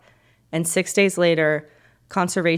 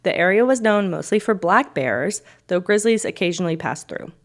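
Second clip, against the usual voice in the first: story narration. A narrator's reading.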